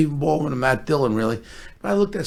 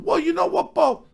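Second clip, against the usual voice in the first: pitched-up imitation, easing down as it goes; Sly impression; 7 semitones higher than usual. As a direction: mimic a star handing out sly advice. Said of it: "He goes".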